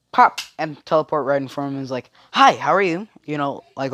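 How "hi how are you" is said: higher, louder mock-giddy greeting. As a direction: imitate an over-eager hello. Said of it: "all giddy and shiz".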